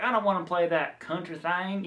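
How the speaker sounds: lightly put-on Southern country accent; a hint of Southern twang on the quote; mild mock country accent from a Southern speaker. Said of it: "that's my country accent".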